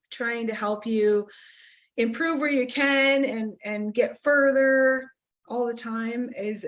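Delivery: catching throat, strained voice; talking through a frog in the throat. Real, not acted. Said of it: "sorry, I'm choking a lot".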